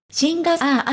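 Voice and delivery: "シンガー" with its final vowel dragged on into a long "あー"; mock drawn-out ending. Shown as a demonstration. Pronunciation coach mocking a celebrity's overlong ending, drawn out. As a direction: stretch the end of "シンガー" into "あー" like an unsure speaker. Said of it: "シンガーという単語の語尾が長すぎます".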